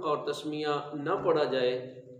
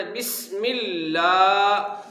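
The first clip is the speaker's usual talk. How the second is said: slow, drawn-out Quranic recitation; slow taught recitation; slow recitation demo; 3 dB louder, much slower than usual. Shown as a demonstration. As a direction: recite it slowly for students to repeat. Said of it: "آرام سے پڑھنا ہے".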